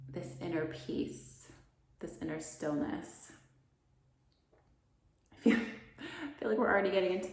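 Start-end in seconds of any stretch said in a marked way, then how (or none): 0.1-3.3 calm. Real, not acted. Soft calm words on inner peace.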